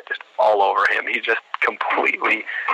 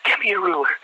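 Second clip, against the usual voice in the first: high, raised military order; drill-instructor demand; 8 semitones higher than usual. Retold or imitated. Sergeant demanding the ruler from the candidate, raised imitated voice.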